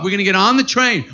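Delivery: fast, breezy quoted phrasing; quick parent quote. Retold or imitated. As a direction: toss it off like his parents did. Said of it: "this is how you talk".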